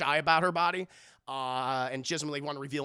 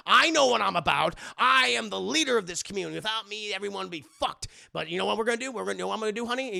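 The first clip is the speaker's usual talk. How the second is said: mock rant; 3 semitones higher, 6 dB louder, faster than usual. Padre ranting about his power.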